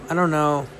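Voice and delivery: said through a yawn. Real, not acted. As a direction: talk while yawning. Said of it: "did I just yawn".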